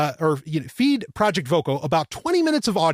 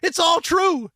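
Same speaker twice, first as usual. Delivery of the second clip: amazed; 10 semitones higher, slower than usual. Retold or imitated. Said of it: "I was like".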